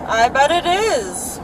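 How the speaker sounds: slow, dry mocking reply; sarcastic. Real, not acted. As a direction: say it with a sneer. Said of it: "Why do you have to be sarcastic?".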